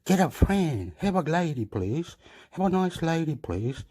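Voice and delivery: high pleading family voice; nagging family. Retold or imitated. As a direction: beg him to find a lady. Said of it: "my family says".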